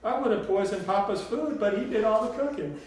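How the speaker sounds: high, loud, emphatic Southern grandmother; Southern drawl. A narrator's reading. Grandmother joking about murdering Papa, loud Southern drawl. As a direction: proclaim it boldly in a Southern voice. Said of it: "in her sweet southern drawl".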